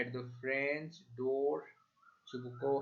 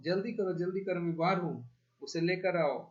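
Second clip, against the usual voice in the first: hysterical yell; 4 semitones higher, faster than usual. Acted. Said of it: "पागलों की भांति चीखती है".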